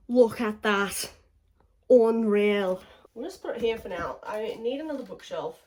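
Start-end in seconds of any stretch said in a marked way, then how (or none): 0.1-1.1 loud, slow, awestruck; awed. Real, not acted. Admiring, louder and slower. 1.9-2.8 loud, stunned exclamation; amazed. Real, not acted. Marvelling at books.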